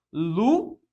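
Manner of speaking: Luiz sounded as Lu-iz with a rise; syllable split. Shown as a demonstration. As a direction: break Luiz into two syllables. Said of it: "fica assim, ó, na separação".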